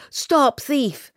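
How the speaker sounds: high-pitched cry, falling away; narrated shout. A narrator's reading. Pursuers calling after the fleeing girl, high shouts. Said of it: "the shouts of".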